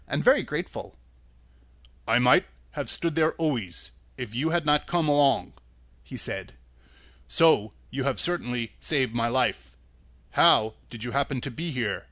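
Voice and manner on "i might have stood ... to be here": Tin Woodman voice. Acted.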